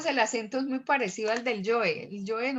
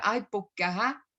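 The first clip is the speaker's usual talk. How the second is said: costeño accent swallowing the R of "porque"; Cartagena accent; 3 semitones lower than usual. Shown as a demonstration. Teacher showing coastal speech, Cartagena accent. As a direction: say it like a cartagenero, "poqque ajá". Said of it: "como el cartagenero se come".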